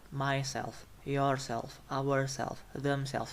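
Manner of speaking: mySELF, yourSELF, ourSELF, themSELVES; weight the final self in myself and yourself; stress on last syllable. Shown as a demonstration. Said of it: "primary stress on the last syllable".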